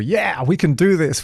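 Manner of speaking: a brighter, upbeat lift on the quote; pep it up like a cheerful rallying cry; mock optimism. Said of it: "a little bit more optimistic".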